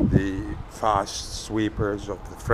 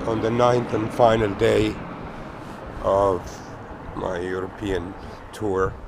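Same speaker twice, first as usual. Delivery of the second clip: croaky voice. Real, not acted. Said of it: "Excuse the croaky voice".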